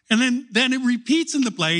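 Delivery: ordinary talk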